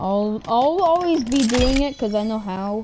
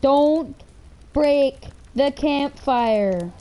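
warning shout; 5 semitones higher, 3 dB louder, much slower than usual. Real, not acted. Warning friend near campfire.

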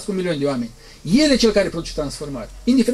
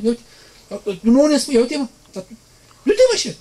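high, louder mocking bystander; jeering taunt; 7 semitones higher, 3 dB louder than usual. Preacher voices the scoffers at the dead girl's house, high jeering. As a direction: sneer it at him. Mockers again taunting Jesus.

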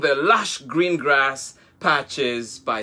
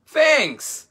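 with a smile; 12 semitones higher, 3 dB louder than usual. Acted. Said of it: "said Abelo with a smile".

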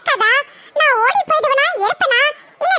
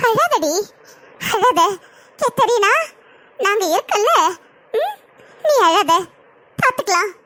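put-on comforting older sister; 6 semitones lower than usual. Older sister consoling the crying bride, in a low soothing voice. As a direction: soothe her, tell her not to cry.

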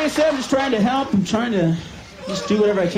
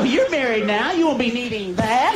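wife's voice; 8 semitones higher than usual. Retold or imitated. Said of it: "She'd go".

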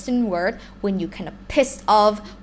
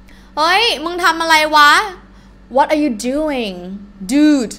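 casual rough; 5 semitones higher, 5 dB louder, much faster than usual. Shown as a demonstration.

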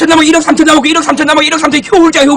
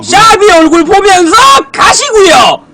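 shouting. Real, not acted. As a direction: yell it at your partner. Same line shouted to partner.

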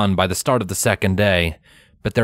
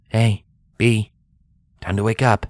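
gentle wake-up call. A narrator's reading. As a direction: gently rouse a sleeping child. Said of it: "he called gently".

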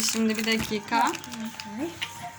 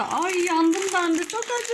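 burning mouth cry; 6 semitones higher, slower than usual. Real, not acted. Burning from hot candy.

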